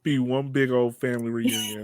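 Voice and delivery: chuckling through a playful line; laughing while joking. Real, not acted. Host jokes to guest about family reunion, laughing. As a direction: let a laugh run under the words.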